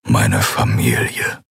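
gruff warrior turned tender; tender admission. Acted. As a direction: let it land gently. Keru finishes, tender.

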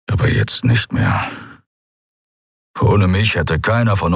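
lightly voiced grim warrior; gruff warrior. Keru speaks of his past.

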